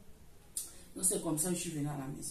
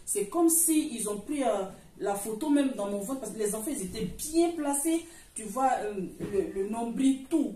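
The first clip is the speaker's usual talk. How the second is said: amazed emphasis; 3 semitones higher, 5 dB louder than usual. Real, not acted. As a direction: stress how unbelievable it was. Marvelling at the ultrasound photo.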